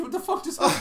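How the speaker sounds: loud, high-pitched real shock; startled alarm. Real, not acted. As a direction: blurt it out, thrown by a sudden change. Startled as the scores suddenly change.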